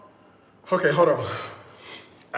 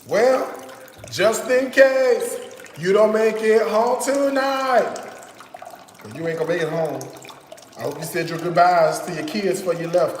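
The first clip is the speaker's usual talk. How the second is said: mock threat. Threatening the mosquito.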